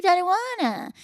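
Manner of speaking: put-on childlike baby talk, very high. Showing how the couple playfully talks to each other: baby talk. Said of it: "we do a little baby talk where I'll be like".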